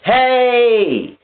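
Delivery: calling out. Retold or imitated. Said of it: "calling him like".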